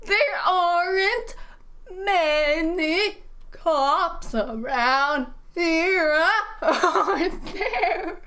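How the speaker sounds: put-on high, loud, slow Norwegian accent breaking into laughter; overdone Norwegian accent, cracking up; mock Norwegian accent. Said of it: "I learned a Norwegian accent from Hassan".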